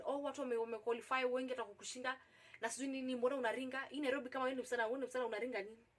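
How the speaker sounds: imitating his mild badgering; agitating. Boss retold pressuring a reluctant young applicant, agitated. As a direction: nag on in a mock agitated run. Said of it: "when he starts agitating".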